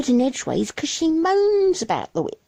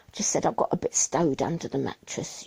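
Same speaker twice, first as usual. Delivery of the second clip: whisper; 8 semitones lower, 6 dB quieter than usual. Acted. Secret kept from husband.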